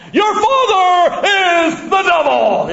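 high, loud, slow mock yell; mock street preacher shout. Open-air preacher yelling at passers-by, hammed-up. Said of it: "open air preaching".

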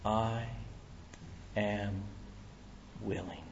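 Jesus quietly reassuring the leper; tender Jesus. Acted. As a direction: say each word gently and deliberately. Jesus' answer, slow and hushed.

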